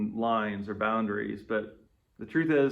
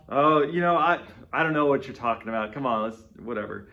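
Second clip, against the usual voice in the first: casual, brush-off denial, fading at the end; playing it off. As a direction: shrug it off like it's nothing. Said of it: "we play it off".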